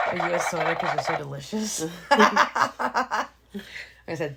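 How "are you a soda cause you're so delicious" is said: repeating the pickup line. Retold or imitated. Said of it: "Good pickup line".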